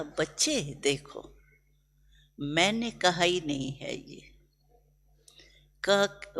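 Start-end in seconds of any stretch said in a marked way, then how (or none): 0.0-4.3 put-on softer, gentle reply to children; a quiet fatherly explanation; gentle, loving. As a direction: reassure them tenderly. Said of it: "प्यार से बोल रहा था".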